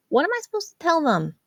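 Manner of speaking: put-on a worried older sister pressing her brother; Jazz, worried sister. A narrator's reading.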